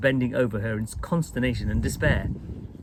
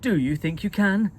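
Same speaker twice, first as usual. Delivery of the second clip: higher, breathless hope; gasped; 6 semitones higher, 4 dB louder than usual. A narrator's reading. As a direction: gasp it out, relieved and desperate. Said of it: "she gasped".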